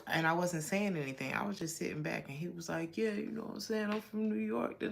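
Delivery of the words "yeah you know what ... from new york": imitating a put-on New York accent, pitched up; mock a man badly faking a New York accent; faked American accent. Man at barbershop pretending he's from New York, faked American accent. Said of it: "put on this accent as if he was from America".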